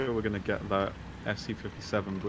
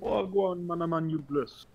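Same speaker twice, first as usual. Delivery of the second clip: put-on London slang accent; 9 semitones higher, 4 dB louder, much slower than usual. Mock London slang greeting.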